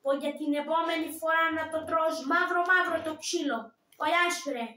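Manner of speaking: lightly voiced Turkish guard, a touch loud; Veligekas voice. Shown as a demonstration. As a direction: threaten him like the puppet guard. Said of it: "και η φωνή". (ελαφρώς δυνατή φωνή Βελγκέκα)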